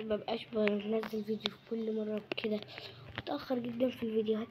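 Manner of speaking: sheepish whispered apology; hushed apology, almost under breath. Real, not acted. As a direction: whisper it like a confession. Apologizing for late uploads.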